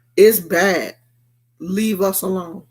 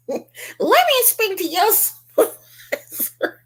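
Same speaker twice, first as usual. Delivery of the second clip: mock Karen voice; 13 semitones higher than usual. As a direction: play the indignant customer demanding a manager. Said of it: "You know she wants".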